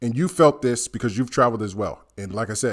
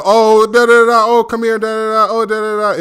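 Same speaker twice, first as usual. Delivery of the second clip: high, loud babbling call; imitating locals jabbering for attention; mock excited locals; 10 semitones higher, 8 dB louder than usual. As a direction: gabble excitedly like eager strangers. Imitating Dubai locals calling out.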